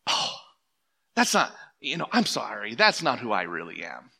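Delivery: sheepish, sinking into a low pitch; embarrassed apology. Acted. Churchgoer apologising for words that slipped out, embarrassed. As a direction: apologise as if caught out, voice dropping low. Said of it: "something that you're a little embarrassed".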